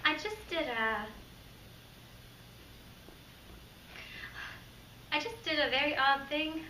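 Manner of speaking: hushed, halting monologue with long pauses; uneasy stalker's confession. Acted. Performs second audition monologue.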